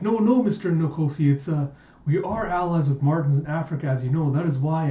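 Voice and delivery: lightly acted, hesitant and embarrassed denial; flustered. Blushing Sonya explains the family alliance to Mister Nkosi, flustered. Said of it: "like, blushing and she's looking at him".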